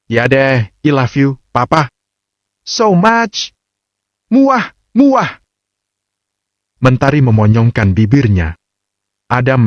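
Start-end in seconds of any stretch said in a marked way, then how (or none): 0.1-5.4 put-on high, coy young wife blowing kisses; playful love declaration. A narrator's reading. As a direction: coo it with kiss sounds. Wife saying I love you.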